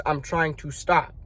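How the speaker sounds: weak excuse. Shown as a demonstration. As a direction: say it like you're half giving in already. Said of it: "Do you see the difference?".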